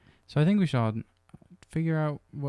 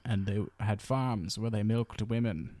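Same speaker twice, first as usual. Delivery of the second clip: slow, portentous novelist voice; measured literary narration, put on; Aldous Huxley impression; slower than usual. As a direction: read it like a dystopian novelist, slowly. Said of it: "That's my Aldous Huxley impression".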